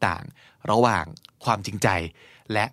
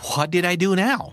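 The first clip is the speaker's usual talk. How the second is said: exasperated; 7 semitones higher, much slower than usual. Acted. Acted exasperated reply.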